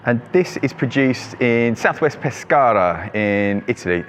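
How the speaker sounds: slowed, self-mocking Italian accent on the place name; bad Italian accent. Real, not acted. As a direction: roll out Pescara in a clumsy Italian accent. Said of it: "Excuse my shit, uh, Italian accent".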